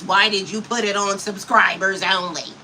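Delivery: imitating a troll's big voice; mock big strong voice. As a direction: puff up like the troll asking. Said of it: "with the big, strong voice".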